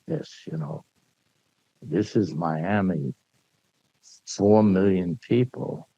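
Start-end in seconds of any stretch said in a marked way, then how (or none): 1.8-5.9 slow, weighty showman's announcement; for the customs man, slow and dramatic. Shown as a demonstration. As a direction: unveil each key slowly like a showman. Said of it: "I'm making it as dramatic as I can".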